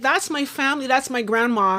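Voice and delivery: high, heartfelt recognition; recognizing family. Retold or imitated. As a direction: say it like you've spotted your grandma. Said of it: "sort of like".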